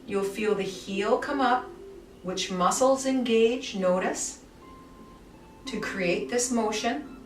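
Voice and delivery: calm guided movement voice with unhurried pauses; guided relaxation. Acted. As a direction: lead the class gently through the movement. Guides a guided body-awareness session.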